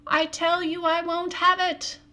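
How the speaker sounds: loud, sharp shout of refusal. A narrator's reading. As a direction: yell it out in anger. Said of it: "go shouting out".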